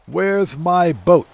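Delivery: slow, drawn-out indignant demand; Michael DeSanta. Retold or imitated. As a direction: drag out the complaint, stressing my. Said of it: "to quote Michael DeSanta".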